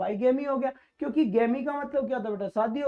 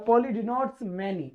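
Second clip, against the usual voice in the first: slow emphasis; 3 semitones lower, much slower than usual. Shown as a demonstration. Teacher stresses key rule.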